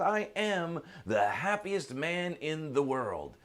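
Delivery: slow, high, proudly delighted announcement; happy declaration. Acted. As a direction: declare it slowly with acted joy. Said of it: "he's just so happy and laughing".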